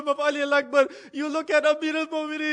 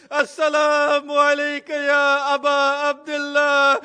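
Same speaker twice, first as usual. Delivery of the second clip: slow, drawn-out call, louder; calling out a last salam; 6 dB louder, slower than usual. Retold or imitated. Dying Abbas calling to his brother, slow mournful call. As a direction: stretch the dying farewell slowly. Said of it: "That's when he calls out".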